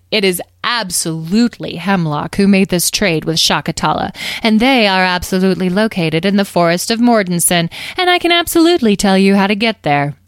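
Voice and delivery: lightly voiced gleeful boaster; emphatic, showy confidence; self-assured fairy leader. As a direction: lean on each boast with relish.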